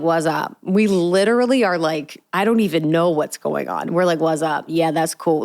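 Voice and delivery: lightly voiced casual twelve-year-old; kid sister voice. Sisters on the phone, lightly acting like twelve. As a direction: slip into sibling kid talk. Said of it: "like, twelve again".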